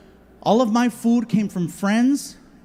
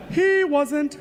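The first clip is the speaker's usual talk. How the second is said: curt correction; 7 semitones higher than usual. Acted.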